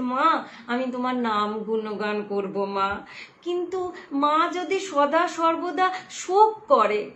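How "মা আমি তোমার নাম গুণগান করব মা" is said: affectionate. Retold or imitated. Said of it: "তাই আদর করে বলছেন".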